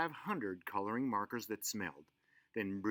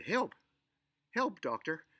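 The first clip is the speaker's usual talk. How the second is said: calling for help; 6 semitones higher than usual. Acted. Mother phoning the doctor in panic.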